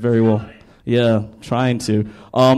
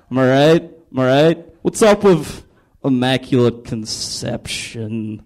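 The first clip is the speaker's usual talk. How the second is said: Jesus; 2 semitones higher, slower than usual. Acted. Jesus warming up the crowd like comedians do, hammed-up. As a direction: work the crowd, then drag out the punchlines. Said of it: "Jesus is like".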